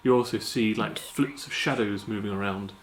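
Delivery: game master scene setting; scene narration. Acted. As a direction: paint the scene for the players. Game master describes the city.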